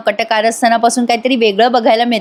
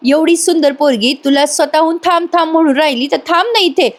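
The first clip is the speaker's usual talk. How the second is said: higher-pitched mock indignation; annoyed scolding; 4 semitones higher than usual. Girl telling her cousin to stay with her, annoyed. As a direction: complain with acted, mild annoyance. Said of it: "आता ती चिडून म्हणते".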